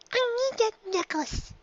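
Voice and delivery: high filly voice, determined; a filly making up her mind; young filly Dinky, determined. A narrator's reading. Filly telling herself her plan, high and determined.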